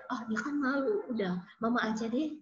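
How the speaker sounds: put-on soft, quick, brushing it off for the child; a mother shrugging and taking over, lightly voiced; indulgent parent excuse.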